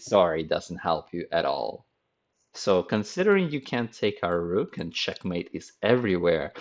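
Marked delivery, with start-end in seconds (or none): 0.0-1.9 low, dry mock apology; mock sorry. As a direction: shrug it off teasingly. Teacher mocking the losing side.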